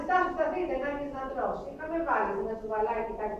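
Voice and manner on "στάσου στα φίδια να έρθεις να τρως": retold frantic cry, higher and louder; mother crying out. Crazed mother calls after her taken son, high cry. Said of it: "Μάνα μου φωνάζει".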